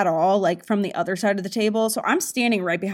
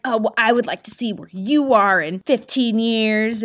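snooty mom. Retold or imitated. Mocking snooty customer.

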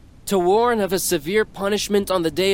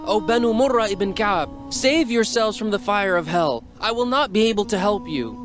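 calling out; 9 semitones higher than usual. Acted. Prophet calls out to clans.

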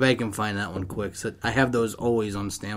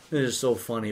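usual speaking voice

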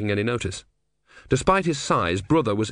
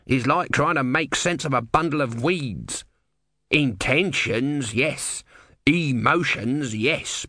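lightly voiced cranky god, higher pitched; testy tortoise god; 4 semitones higher, slower than usual. Tortoise god explains mind reading to Brother, mildly testy. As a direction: explain with mild impatience, drawing out key words.

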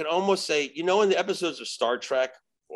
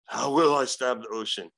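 put-on voice of a stumped demon; baffled demon; 2 semitones lower than usual. Possessed girl repeats the riddle, mock bafflement. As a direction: puzzle over the question in an altered voice. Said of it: "And she goes".

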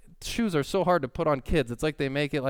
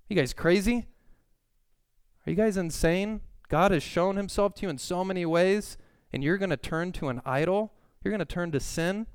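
exasperated; 5 semitones higher than usual. Acted. God's exasperated rebuke of Israel.

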